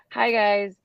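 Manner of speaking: blocked nose after surgery; stuffy nose. Real, not acted. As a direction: talk through a stuffy nose. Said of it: "if I sound like I'm really stuffy, because I am".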